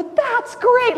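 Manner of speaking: high, bright-pitched parental praise; mock encouragement. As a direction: humour the kids with big praise. Parents answer kids' game.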